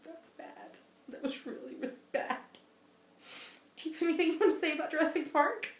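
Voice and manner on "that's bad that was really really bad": softer unvoiced whisper; whispered aside. Real, not acted. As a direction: hush it like a scary secret. Whispering about mean dinosaur.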